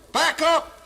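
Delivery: loud high panicky commands; hammed-up frantic captain shouting; frantic yelling. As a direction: yell at the crew like the edge is near. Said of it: "going through a bit like".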